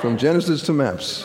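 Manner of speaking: congregational declaration. Real, not acted. Leads congregation in repeated declaration.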